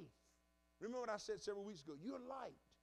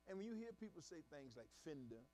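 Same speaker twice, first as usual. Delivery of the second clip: ordinary delivery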